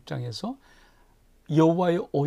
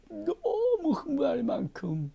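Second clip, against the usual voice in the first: much higher, slowed, thrilled; excited; 12 semitones higher, slower than usual. Acted. Preacher paints God's delight at David, high and slow. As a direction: stretch it out, giddy with delight.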